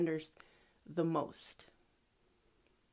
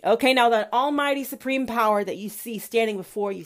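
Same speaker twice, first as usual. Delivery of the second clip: God voice; 3 dB louder than usual. Acted. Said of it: "says God".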